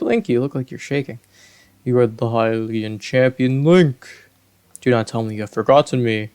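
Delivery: lightly voiced regal fish king; a hint of a booming Zora monarch; kingly Zora voice. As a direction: speak as a gracious old king. Voices King Dorephan's dialogue.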